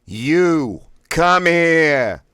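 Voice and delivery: each word blasted high, loud and very slow; three words blasted. Shown as a demonstration. Voice exercise, "You come here" blasted word by word. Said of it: "Blast out all three words individually".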